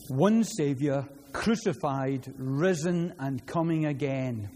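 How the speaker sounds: lifted, proclaiming recital of a pledge; a preacher's solemn public recitation. Acted. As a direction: declaim it like a vow before the congregation.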